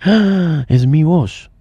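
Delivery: acted little scare with a gasp; mock fright. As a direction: gasp in mild mock shock. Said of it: "sí, susto. Uno dice".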